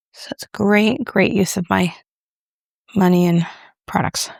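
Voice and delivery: dry mock praise; sarcastic. Real, not acted. Vlogger mocking own spending on unused products, sarcastic. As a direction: say it with understated sarcasm. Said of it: "Sense the sarcasm in my voice".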